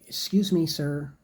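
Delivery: polite call. Shown as a demonstration. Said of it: "put up your hand and say".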